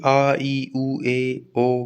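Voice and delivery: "आ, ई, ऊ, ए, ओ" as open sustained vowels; each of "आ, ई, ऊ, ए, ओ" voiced with free airflow; unobstructed vowels. Shown as a demonstration. Teacher showing vowels have no blockage, unobstructed vowels. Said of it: "बाधा नहीं आएगी".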